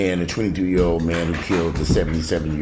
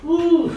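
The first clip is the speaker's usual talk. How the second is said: high "woo" of exasperation; exasperated whoop; 4 dB louder than usual. Real, not acted. Worn-out owner amid dog racket, high exasperated woo.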